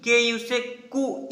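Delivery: कु said with a brief u; short ku. Shown as a demonstration. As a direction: keep कु short and light. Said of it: "इसका छोटा उच्चारण होगा". (छोटी उ की मात्रा वाला छोटा कु)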